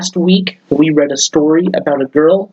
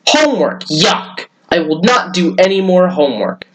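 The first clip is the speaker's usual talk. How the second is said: protest; 3 semitones higher than usual. Acted. Boy refuses homework to mother.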